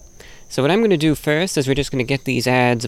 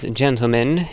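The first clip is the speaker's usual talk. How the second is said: ordinary talk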